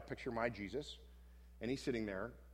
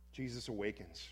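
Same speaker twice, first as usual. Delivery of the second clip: guided scripture meditation. Acted. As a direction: lead the listeners into the scene gently.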